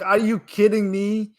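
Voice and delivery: furious dad. Retold or imitated. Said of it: "like, furious".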